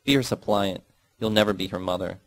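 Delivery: mother's scream. Acted.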